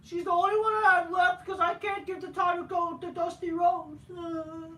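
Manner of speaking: high, loud fake blubbering; mock crying. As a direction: ham up a crybaby sob. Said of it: "he basically become a crybaby".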